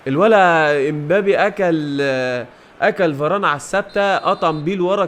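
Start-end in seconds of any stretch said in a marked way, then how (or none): 0.1-2.0 slow, louder marvel at the dribble; slow amazed praise. Real, not acted. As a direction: stretch it out in amazement. Marvelling at Mbappe's move. (إعجاب بطيء وبصوت أعلى)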